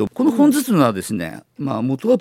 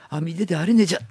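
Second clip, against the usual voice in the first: thick Tsugaru dialect. Retold or imitated. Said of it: "勝てるか勝てないかとか".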